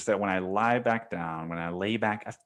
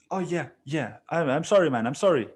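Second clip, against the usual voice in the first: sheepish apology; 5 semitones higher than usual. Retold or imitated. Neighbor's apologetic reply voiced.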